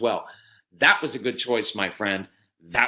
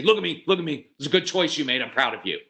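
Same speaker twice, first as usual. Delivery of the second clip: enthusiastic praise; 2 semitones higher, faster than usual. Retold or imitated. Parent praising a child's good choice, with excited intensity. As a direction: praise the kid with real intensity. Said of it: "We never come home and say".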